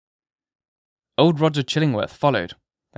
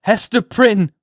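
high, loud, desperate call of her name; piercing eager cry; 9 semitones higher, 7 dB louder, slower than usual. A narrator's reading. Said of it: "cried he, with a piercing eagerness".

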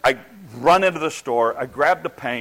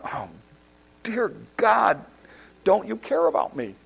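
exasperated plea; 4 semitones higher than usual. Retold or imitated. Acted complaint to God.

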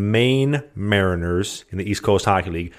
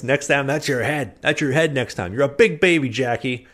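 angry taunt; 5 semitones higher than usual. Acted. Acting out angry threats.

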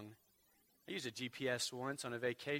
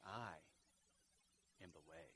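hushed; 8 semitones lower, 15 dB quieter than usual. Acted. Jesus' answer read, hushed.

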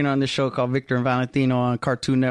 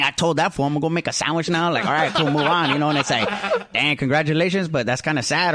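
Creeper. Acted. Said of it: "Could we have, uh, Creeper on for a sec?".

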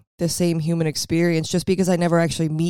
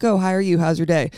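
breezy, throwaway small-talk greeting; hollow pleasantry; faster than usual. Retold or imitated. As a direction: toss it off like an empty pleasantry. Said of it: "not just that pleasantry".

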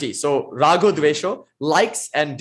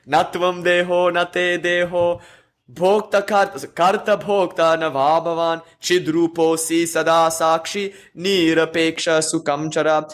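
verse recitation. Real, not acted. Chants the Sanskrit verse.

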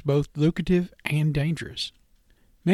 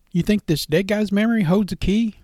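skeptical question; 6 semitones higher, 4 dB louder than usual. A narrator's reading. Cypher questioning stranger, skeptical.

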